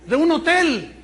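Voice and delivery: mock his excuses with biting sarcasm; sarcastic angry wife. Wife confronts husband sarcastically.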